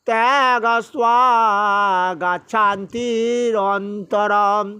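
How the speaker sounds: slow, measured chanting of scripture; Sanskrit verse recitation. Acted. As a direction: intone each verse with pauses. Recites Gita verses in class. (ধীর লয়ে শ্লোক পাঠ)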